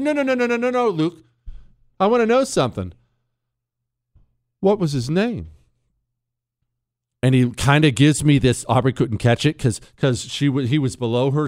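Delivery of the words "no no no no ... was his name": mock concern. Dad probing son's fake tears.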